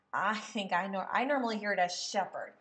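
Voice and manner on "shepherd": shepherd said as SHEP-herd; stress on first syllable. Shown as a demonstration. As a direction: punch the first syllable of shepherd, let the second drop. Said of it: "underline the first syllable".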